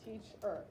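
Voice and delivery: "Teacher" broken into teach-er; syllable demo of "Teacher". Shown as a demonstration. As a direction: say "Teacher" in two clapped beats. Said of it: "clap every time you open your mouth".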